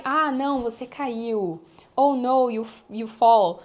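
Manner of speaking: loud, drawn-out mock "oh no" reaction; mock dismay. Acting out reaction to a fall. (consternação encenada, em voz alta e arrastada)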